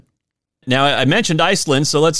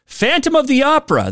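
high, sung-out operatic announcement; dramatic title; 11 semitones higher than usual. Pretend. Host hamming up the old movie title, mock operatic. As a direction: announce it like a grand theatre poster.

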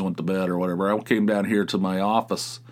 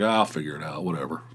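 unbothered shrug; 5 semitones lower, 5 dB quieter than usual. Retold or imitated. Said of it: "But now I'm just like".

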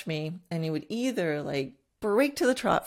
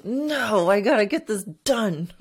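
insistent inner voice; 4 semitones higher, 8 dB louder than usual. Retold or imitated. Stubborn inner voice pushing on.

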